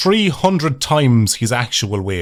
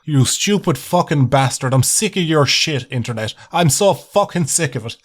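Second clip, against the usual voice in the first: mock rant; 4 semitones higher than usual. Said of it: "stick my fucking middle finger up at the screen and just go".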